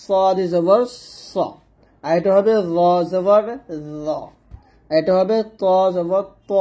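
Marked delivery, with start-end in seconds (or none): 0.0-1.3 সদ জবর, pause, heavy rounded স; heavy "so" sound. Shown as a demonstration. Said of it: "স মোটা হবে অবশ্যই". 2.8-4.1 র জবর র with heavy, rounded "zo"; heavy Arabic zo. Shown as a demonstration. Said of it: "এই সাতটা অক্ষর মোটা করে". 5.6-6.5 ত জবর ত, ত full and rounded; heavy Arabic "to". Shown as a demonstration. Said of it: "এরকমভাবে আমাদেরকে ... মোটা করে".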